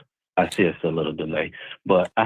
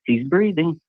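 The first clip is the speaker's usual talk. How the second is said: higher-pitched quoted call; imitated exclamation; 8 semitones higher than usual. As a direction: call it out as the man on the video. Quoting background man on video.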